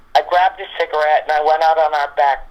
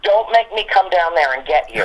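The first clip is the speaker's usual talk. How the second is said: higher, mock-stern threat to a dog; aggravated warning; 4 semitones higher than usual. Auntie using her usual line on a stubborn dog, mock-stern. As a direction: retell a mildly exasperated warning. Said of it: "this is the line I use on her".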